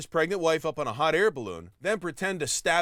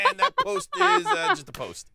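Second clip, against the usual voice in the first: laughing; 3 dB louder than usual. Real, not acted. Laughing through the punchline.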